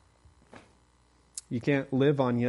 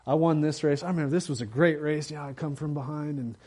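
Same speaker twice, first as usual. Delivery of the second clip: bragging runner; 3 semitones higher, faster than usual. Retold or imitated. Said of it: "he's saying".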